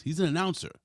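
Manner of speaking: high-pitched disbelieving retort; mock childish protest. Son contradicting his dad, high mock protest. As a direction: pitch way up, insisting like a kid.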